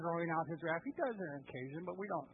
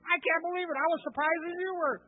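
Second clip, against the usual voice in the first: laughing, high and louder, playing innocent; laughing mock innocence; 5 semitones higher, 4 dB louder than usual. Aaron making excuses to Moses, laughing innocence. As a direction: fake surprised giggle over a lame excuse. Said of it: "and he says".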